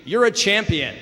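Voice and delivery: high, projected call; loud shout. Acted. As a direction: shout praise out to the mountain. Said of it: "the man screams".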